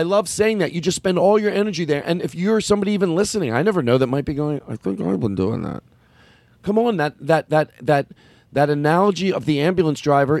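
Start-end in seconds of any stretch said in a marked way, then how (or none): 4.7-5.8 imagined listener voice. Retold or imitated. Listener voiced admitting quietly.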